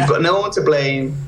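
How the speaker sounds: ordinary talk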